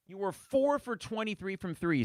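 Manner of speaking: a touch of an incredulous announcer; quoting the announcer. Retold or imitated. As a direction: repeat the stat with disbelief. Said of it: "says T J".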